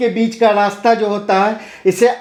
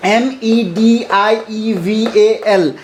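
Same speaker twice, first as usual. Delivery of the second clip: slow letter spelling; much slower than usual. Shown as a demonstration. Teacher spells the word out for the class, slow and even. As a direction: spell each letter slowly, one by one. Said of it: "इसे हम मेडिवल पढ़ते हैं या मेडाइवल".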